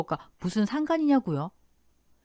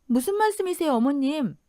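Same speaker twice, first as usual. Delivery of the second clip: genuinely bewildered; 4 semitones higher than usual. Acted. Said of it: "정말 이해가 안 돼서 그렇게 말했답니다".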